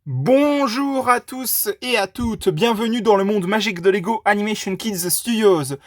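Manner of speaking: high squeaky sing-song greeting; bright squeaky sing-song welcome. Acted. Usual host intro after role intro.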